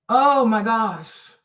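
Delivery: drawn-out exasperated groan; slow, weary exasperation; exasperated sigh. Real, not acted. Reacting to annoying chatter.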